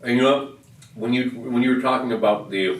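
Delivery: talking with a mouth full of food. Real, not acted. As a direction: speak around a bite of food. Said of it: "I got my mouth full".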